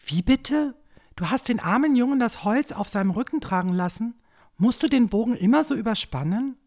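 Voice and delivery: indignant scolding. Acted. Mother scolds father over boy.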